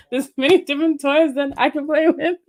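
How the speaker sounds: put-on giggly child voice. Continues childish bit, laughing.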